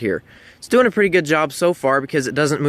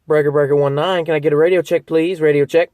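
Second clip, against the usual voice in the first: louder radio operator call, carrying over the channel; 4 dB louder than usual. Shown as a demonstration. Driver calling out over the CB again for a radio check. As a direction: call out to anyone listening on channel nineteen. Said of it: "So let's go ahead and do that".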